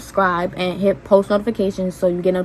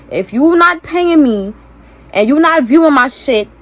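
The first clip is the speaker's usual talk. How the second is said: louder and higher, telling her off; heated rant; 5 semitones higher, 4 dB louder than usual. Real, not acted. Telling off her old friend.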